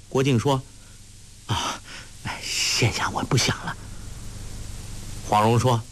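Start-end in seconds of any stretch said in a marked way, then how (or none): 1.5-3.8 sheepish, hushed dodge; embarrassed whisper. A narrator's reading. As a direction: mumble it away shyly. Guo Jing embarrassed, evading. (害羞地低声搪塞)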